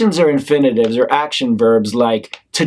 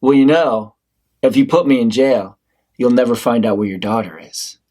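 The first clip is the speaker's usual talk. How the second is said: manipulative; 3 semitones lower than usual. Acted.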